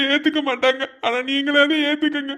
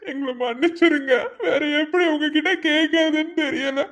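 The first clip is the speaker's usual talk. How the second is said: tearful plea. Acted. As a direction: voice breaking while begging forgiveness. Begging parents, crying heard. (அழுதுகொண்டே கெஞ்சுதல்)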